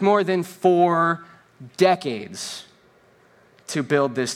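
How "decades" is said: normal talking voice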